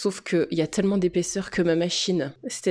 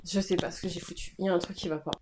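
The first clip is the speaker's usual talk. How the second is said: real dejection, much softer voice; disgusted, dejected; 7 dB quieter, faster than usual. Real, not acted. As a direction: drop the volume, fed up with your own work. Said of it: "je suis franchement dégoûtée".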